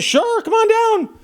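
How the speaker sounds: high, drawn-out hammed-up radio host voice; a playful imitation of the host inviting him down; mock radio host. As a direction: stretch it out like a showy DJ. Radio host's inviting answer, imitated.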